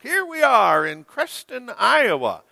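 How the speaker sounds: high announcer imitation, falling at the end; TV parade announcer. Pastor repeating the commercial's parade man, high announcer voice. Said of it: "That's how he talked".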